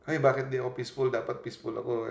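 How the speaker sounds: quick, fretful mock complaint; fretful self-talk. Preacher imitating an anxious believer scolding herself, fast and fretful. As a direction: rattle it off like a worried person. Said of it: "magiging stress ka".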